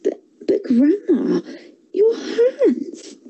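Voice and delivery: put-on high, hushed child's voice; curious young girl; little girl voice. A narrator's reading.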